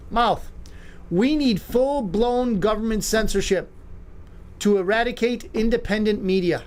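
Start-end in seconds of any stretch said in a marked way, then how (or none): 1.1-6.6 slow it down, lean on each word; slower and weightier. Shown as a demonstration. Host repeating the Obama quote slowly for viewers. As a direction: drag it out so every word lands. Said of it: "I'm gonna say that again a little slower".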